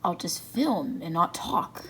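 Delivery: ordinary delivery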